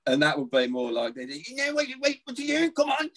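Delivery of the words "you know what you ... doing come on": high-pitched, barely intelligible Brummie rant; thick Brummie accent. Acted. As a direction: shout it out as an old man at the football, thick Brummie. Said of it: "Brummie accent that you can barely understand".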